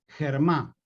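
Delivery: "germá" begun with a Spanish jota; deliberate mispronunciation. Shown as a demonstration. Teacher helping students spell it, "germá" with jota. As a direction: say "germá" with a throaty h, stressed on the final a. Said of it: "lo pronuncio mal, pero para que lo escriban bien".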